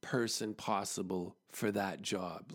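slow, low disbelieving question; retold incredulity, deliberately spaced out; incredulous. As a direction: drag out the question, sinking low at the end. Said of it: "he was incredulous".

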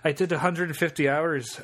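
put-on out-of-practice Welsh accent drifting Scottish; bad Welsh accent. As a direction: attempt Welsh, land near Scottish. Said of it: "it sounds Scottish".

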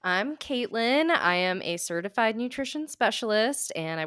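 a hint of accent on I'm Caitlin; slight put-on accent. Real, not acted. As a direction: lean lightly into an accent for your name. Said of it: "I went accent-wise today".

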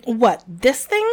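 slow, disgusted question; revulsion. Acted. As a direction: sound repelled by it. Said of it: "in a tone of revulsion".

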